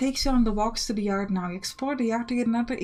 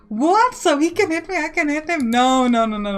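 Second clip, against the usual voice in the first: put-on loud, high indignant child; outraged protest; 5 semitones higher, 6 dB louder than usual. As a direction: shout in disbelief.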